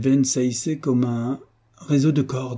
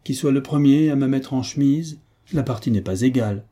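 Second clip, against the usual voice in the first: lightly voiced mocking marquis, pitched up, urging; lively hunchback nobleman, higher than the narration; jovial, mocking hunchback marquis; 5 semitones higher than usual. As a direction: hurry the opponent along with jovial mockery.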